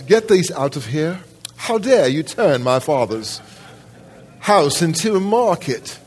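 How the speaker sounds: fierce, indignant command; indignant outrage. Retold or imitated. Jesus driving the money changers out in anger. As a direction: drive them out with outrage. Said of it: "do you catch the indignation".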